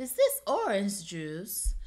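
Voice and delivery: fake British lilt, rising then falling pitch. Attempting how a British accent goes, put-on British accent, rising then falling. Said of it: "the British accent always asks a question, kind of, in the middle of the sentence".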